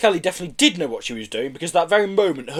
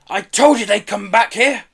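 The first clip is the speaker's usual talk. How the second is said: raised, loud bawl; 7 semitones higher, 6 dB louder than usual. A narrator's reading. Pelly telling police she was right, bawling. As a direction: crow it out at full voice. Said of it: "bawled Pelly".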